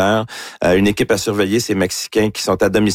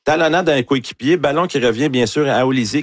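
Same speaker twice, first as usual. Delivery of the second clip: excited play-by-play; 5 semitones higher than usual. Real, not acted. Sports host recounts Mbappé's goal to his co-host, excited and pitched higher. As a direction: pitch up, eager retelling of the goal.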